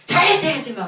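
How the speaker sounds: a mild mock angry order; sharp retold order. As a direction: snap at the husband to stop. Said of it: "막 내가 이랬어요".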